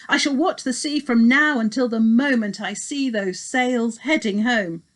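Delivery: a father's anxious promise; worried old king. Acted. Agis answers his son.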